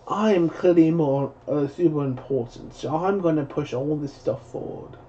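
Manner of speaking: mock self-important British accent. Streamer mimicking self-important Hollywood elite in a British accent. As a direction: put on a slightly pompous British voice. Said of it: "I switched into British accent".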